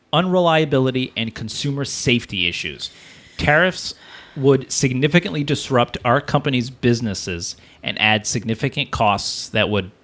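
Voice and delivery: measured, formal read-aloud; reading a statement aloud. Acted. Host reads console makers' statement to co-host, measured read-aloud. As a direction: read out an official written statement.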